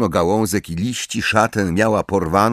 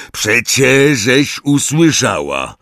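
dismissive; 5 semitones higher, 5 dB louder than usual. Acted. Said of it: "odrzekł lekceważąco Hagrid".

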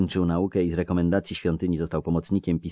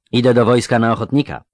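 a lightly voiced earnest youth; curious young clerk; young scribe voice; 6 semitones higher, 11 dB louder than usual. Jare declares.

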